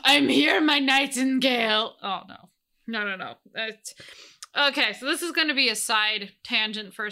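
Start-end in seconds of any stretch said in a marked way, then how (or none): 0.0-2.0 second, slower take of the mock Austrian bodybuilder accent; drawn out Arnold-parody voice, louder; hammed-up Austrian-ish accent, slower; better Hans and Franz voice. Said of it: "in a better Hans and Franz voice".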